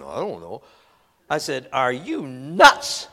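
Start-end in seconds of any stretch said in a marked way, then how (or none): 0.0-0.6 put-on low, soft mumbling kid; a lightly voiced sheepish boy, lower and softer; sullen boy. Boy answers the preacher. 1.7-3.1 slow, louder disbelieving question; mock exasperated. Preacher confronts the boy.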